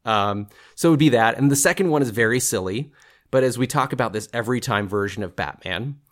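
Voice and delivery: ordinary talk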